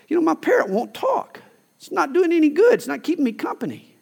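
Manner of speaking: lightly voiced grumbling parrot owner; complaining woman. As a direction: mildly mimic a fed-up shopper. Woman complains about silent parrot.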